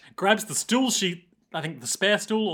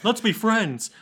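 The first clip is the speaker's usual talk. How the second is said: higher, sugary make-nice voice; suddenly shy and friendly; sweet shy apology; 5 semitones higher than usual. Retold or imitated. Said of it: "being like".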